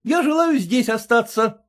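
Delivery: high, clipped refusal; voiced husband refusing to leave; curt husband. A narrator's reading. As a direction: cut them off firmly. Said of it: "отрезал тот".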